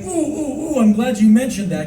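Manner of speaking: high, excited nerdy ooh; eager nerd. Retold or imitated. Eager nerd chiming in to a story. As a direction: bounce on it like a know-it-all. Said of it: "The nerd in me wants to say".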